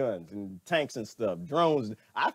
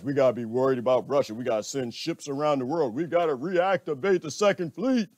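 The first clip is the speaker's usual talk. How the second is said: puffed-up America; 3 semitones lower than usual. Retold or imitated. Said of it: "now they puffing up their chest".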